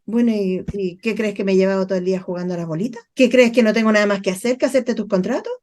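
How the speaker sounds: fast, sarcastic complaint; mildly annoyed coworker, rushed; irritated worker. Retold or imitated. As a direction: fire off the sarcastic questions quickly. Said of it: "la gente responde mal".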